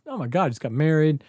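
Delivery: mock-panicked spiral. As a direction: play up a rising sense of doom. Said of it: "I was spiraling".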